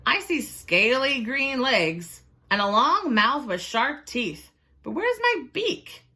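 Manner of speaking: high, puzzled chicken voice; a hen peering at her reflection, confused. Acted. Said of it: "she said".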